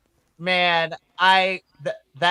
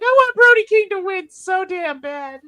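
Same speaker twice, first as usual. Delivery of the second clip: much higher, louder pleading cry; desperate wish; 9 dB louder than usual. Retold or imitated. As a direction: beg for the win with all your heart. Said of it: "I was just like".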